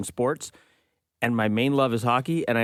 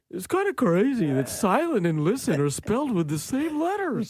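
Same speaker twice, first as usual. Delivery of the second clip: musing dog voice; 9 semitones higher than usual. Pretend. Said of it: "she's more like".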